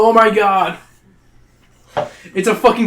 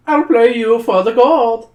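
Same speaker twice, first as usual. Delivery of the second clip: high, louder, slow troll offer; bargaining troll; 7 semitones higher, 6 dB louder, slower than usual. Acted. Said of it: "Crombie bargains".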